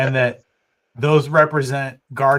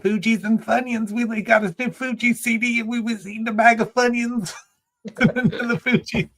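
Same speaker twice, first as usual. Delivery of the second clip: Southern yokel voice, pitched up high; Southern accent; 9 semitones higher than usual. Retold or imitated. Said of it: "he says it in this, like, Southern accent".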